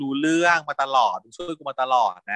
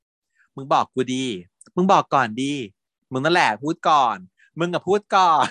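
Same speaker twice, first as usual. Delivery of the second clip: playful coaxing back and forth. Retold or imitated. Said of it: "นางอ้อยกันจนถึงจุดที่ว่า".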